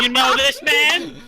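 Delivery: high, slow probing question; suspicious landlady. Acted. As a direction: eye the stranger and ask the boarder. Landlady questions another boarder.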